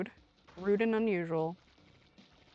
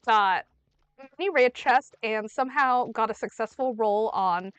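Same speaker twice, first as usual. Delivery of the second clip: raised voice, building exasperation; exasperated yelling; 4 dB louder than usual. Real, not acted. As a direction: spell it out loudly in frustration. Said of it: "Sorry if I'm yelling".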